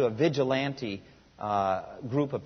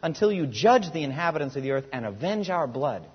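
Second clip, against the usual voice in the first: much higher and louder, crying out to God; 4 semitones higher, 7 dB louder than usual. A narrator's reading. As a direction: call out with a loud voice. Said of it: "called out in a loud voice".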